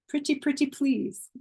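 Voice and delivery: mock-pleading request; playful pleading. Real, not acted. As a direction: coax them sweetly. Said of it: "pleading with viewers".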